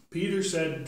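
put-on clear, bright reading to children; scripture reading. Priest reading Acts to the children, storytelling style. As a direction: read the lesson out to the kids.

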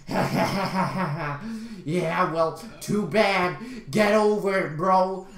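imitated taunting laugh and dismissal; mock-laugh, then brush him off; mocking jerk. Chocolate hoarder laughing at the complainer, mocking. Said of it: "He's like".

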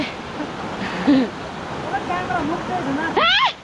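laughing. Real, not acted. Laughing on the river descent.

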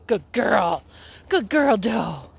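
drawn-out praise for the dog; praising dog. Real, not acted.

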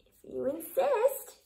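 slow, high, sweet reply; sweetly. A narrator's reading. Friendly ladybug calmly accepting the fight, sweet and slow. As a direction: answer sweetly and unbothered. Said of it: "answered the friendly ladybug sweetly".

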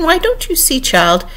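high-pitched exasperated question; crying out. A narrator's reading. Red Queen rebuking the child Alice, crying out. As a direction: start high, drop on the last word. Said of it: "cried the queen".

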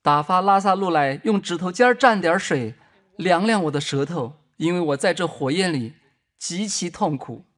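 the rich man in torment begging Abraham; crying out. Acted. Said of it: "他喊着说".

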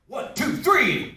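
slow, high count-in. Shown as a demonstration. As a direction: draw the count out for the scream. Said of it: "Give me your best horror movie scream".

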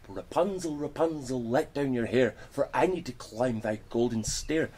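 loud sing-song call up the tower. Acted. Witch calls up to tower.

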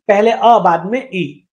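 "पहले अ, बाद में ई" slowly, each sound isolated; syllable sounded out. Shown as a demonstration. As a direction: split the syllable, ending on a separate long "ई". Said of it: "बाद में स्वर आएगा".

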